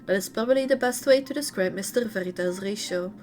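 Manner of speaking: lively read-aloud intonation. A narrator's reading. Streamer reading a character's story to viewers, read-aloud narration. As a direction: read game lore out in phrases.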